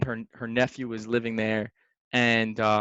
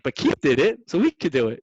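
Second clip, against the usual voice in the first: louder, higher retold argument; convinced insistence; 3 semitones higher, 6 dB louder than usual. Partners reasoning from what Keith told them, convinced insistence. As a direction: insist on it like a true believer. Acts out their naive belief.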